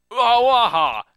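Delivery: loud, high outburst; big put-on "aha"; acted exclamation. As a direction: cry out in sudden triumph. Voicing a character's outburst.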